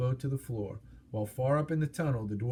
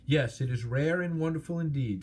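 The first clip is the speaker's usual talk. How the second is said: absurdly pleased; 3 semitones higher than usual. Acted. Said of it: "absurdly pleased".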